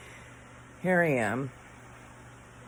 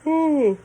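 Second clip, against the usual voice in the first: loud, high, sleepy yawn; big late-night yawn; 13 semitones higher, 9 dB louder than usual. Real, not acted. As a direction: let the yawn take over. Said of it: "I'm yawning".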